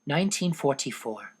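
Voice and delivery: a lightly voiced teenage girl reading her diary; Anne's diary voice. Anne reading her diary entry aloud, lightly voiced girl.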